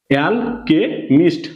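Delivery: "এল কে মিষ্ট" slowly, with gaps between parts; slow teacher's model of "এল কে মিষ্ট"; syllable-by-syllable. Shown as a demonstration. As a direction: sound out "এল", "কে", "মিষ্ট" one by one. Teacher sounds out joined syllables.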